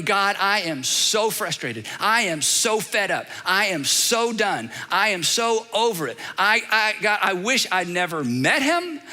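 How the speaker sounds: a hint of a weary, frustrated pray-er; frustrated prayer. Shown as a demonstration. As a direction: pour out exasperation in prayer. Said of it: "heart wide open".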